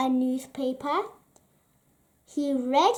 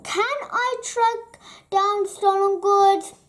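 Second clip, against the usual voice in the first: eager wondering; 6 semitones higher, 4 dB louder than usual. Acted. Alfie wonders if he can do the job, eager. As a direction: wonder aloud with growing hope. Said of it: "he wondered".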